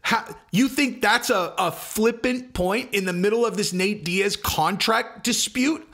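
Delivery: high, slow, incredulous challenge; amplified disbelief. Retold or imitated. Host mocking those who downplayed the news, incredulous. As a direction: stretch it out in rising disbelief. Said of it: "amplified it by being like".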